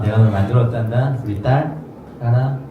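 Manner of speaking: 조용하고 다정한 아버지의 부름; 딸을 품듯 부드럽게 조금 작게; 사랑 가득한 창조주. Retold or imitated. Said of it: "너무 사랑이 많은 창조주가". (창조주가 딸에게 다정하게 조용히)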